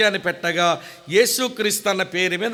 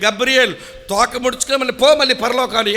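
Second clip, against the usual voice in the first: loud, higher command to go; telling Gabriel off in a raised voice; mock order to leave; 3 semitones higher, 4 dB louder than usual. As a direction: send the angel packing, loudly. Preacher orders Gabriel back to heaven.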